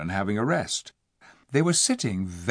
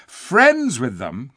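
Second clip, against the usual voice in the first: indignant cry; 3 semitones higher, 6 dB louder, much slower than usual. Acted. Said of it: "cried Eustace".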